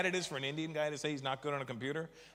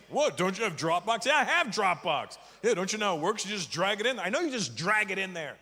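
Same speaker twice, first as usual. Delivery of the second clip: higher, heated back-and-forth; mock argument; 4 semitones higher than usual. To his friend about Dropbox, a heated mock argument. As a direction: play both sides of the spat.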